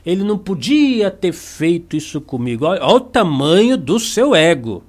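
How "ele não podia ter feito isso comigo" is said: offended ego. Retold or imitated. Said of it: "aí você pensa".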